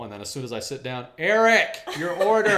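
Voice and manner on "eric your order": loud, high mock counter shout; booming imitation of a food-counter call; calling out an order. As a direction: holler it across the room like the order guy. Retold worker calling out order.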